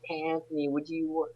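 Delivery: a hint of a mom calling her son; impression of mom. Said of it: "that's my impression of my mom".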